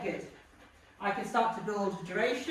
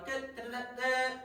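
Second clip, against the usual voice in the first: mock hand taps; 3 semitones higher than usual. Shown as a demonstration. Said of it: "So the dog will go".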